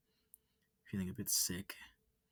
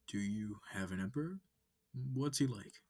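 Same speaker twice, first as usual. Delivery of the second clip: bright curious alien asking questions; eager alien wolf; 2 semitones higher, 4 dB louder than usual. Acted. Wolf asks about emperor.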